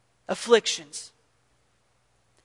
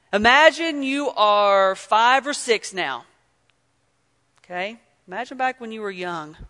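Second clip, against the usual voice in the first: guided imagining. Acted. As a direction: lead them gently into the memory. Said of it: "think with me".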